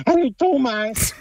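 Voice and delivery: lightly voiced cartoon character; Willi. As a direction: say hello as the cartoon bee's pal. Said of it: "So ist besser, genau".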